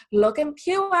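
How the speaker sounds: exaggerated, giggly imitation of a lyric; mock song quote. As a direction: play up PURE as an in-joke. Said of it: "me and Emmett would always be like".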